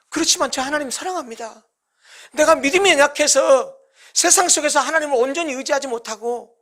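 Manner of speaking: pleading, sincere confession to God; humble prayer. Retold or imitated. Sinner coming to God confessing and begging forgiveness, earnest plea. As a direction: pour out a weak heart honestly. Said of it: "라고 하나님께 나오면".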